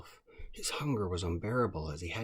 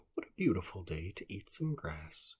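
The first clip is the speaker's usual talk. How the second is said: groundhog. Acted. Groundhog voiced in a story.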